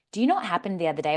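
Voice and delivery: fast flat robot monotone. Shown as a demonstration. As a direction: rattle it off like a robot. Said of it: "Now you sound like a robot".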